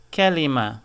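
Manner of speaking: kelima with a light K from the front of the mouth; kelima, the correct front K. Shown as a demonstration. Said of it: "The K must be pronounced from the front of your mouth".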